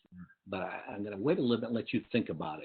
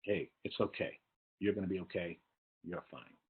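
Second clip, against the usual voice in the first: gentle, softer reassurance, trailing off; soft sympathy; 2 semitones lower, 5 dB quieter than usual. Shown as a demonstration. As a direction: murmur the comfort kindly. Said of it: "show sympathy".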